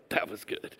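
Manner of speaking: very soft, near-whispered aside; dramatic pause. Acted. Jesus after calming the storm, understated hush. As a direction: barely voice it, as if understated. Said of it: "like, this dramatic pause".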